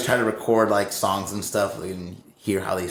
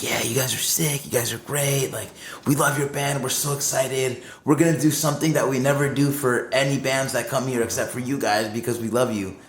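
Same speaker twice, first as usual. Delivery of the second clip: eager, higher-pitched gushing fan imitation; super hyped; 3 semitones higher than usual. Crew tells the visiting band they love them, super hyped. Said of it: "super hyped".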